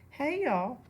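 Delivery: loud, high call through a car window; Mama calling to her kids from the car. A narrator's reading. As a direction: hail the kids cheerfully from the car. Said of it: "Mama called through the window".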